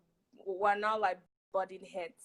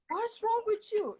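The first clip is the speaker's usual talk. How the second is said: mock exasperation; 11 semitones higher than usual. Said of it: "you just like".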